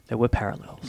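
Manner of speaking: "There were parallels" dropped low and soft; quiet repeat. Shown as a demonstration. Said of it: "but there were parallels".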